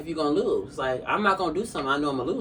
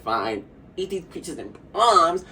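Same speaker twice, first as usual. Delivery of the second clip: reluctant quote; slower than usual. Retold or imitated. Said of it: "she did not wanna do it at all".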